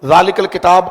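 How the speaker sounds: ذالک الکتاب joined as zaalika-l-kitaab; read with vowel marks. Shown as a demonstration. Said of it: "اس کو اعراب کے ساتھ پڑھتے ہیں". (ذالک الکتاب اعراب کے ساتھ پڑھیں)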